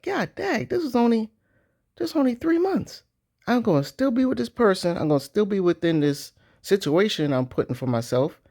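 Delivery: high-pitched mock dismay at the calendar; shocked self quote. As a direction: squeal it out like the months just hit you. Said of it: "be like".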